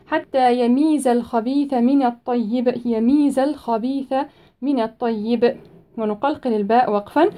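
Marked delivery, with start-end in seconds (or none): 0.1-5.5 slow measured tajweed recitation; Quran recitation. Shown as a demonstration. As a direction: recite it with tajweed, stretching the vowels.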